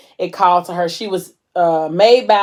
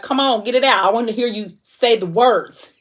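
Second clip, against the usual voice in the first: higher-pitched coaxing demand; acted urging; 4 semitones higher than usual. Man coaxing Mo to say the words, insistent. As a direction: egg her on to confess. He presses her to confess.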